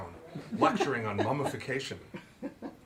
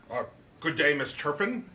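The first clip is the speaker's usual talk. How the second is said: shy greeting; 3 semitones higher, 3 dB louder than usual. Acted. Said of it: "Andrew said shyly".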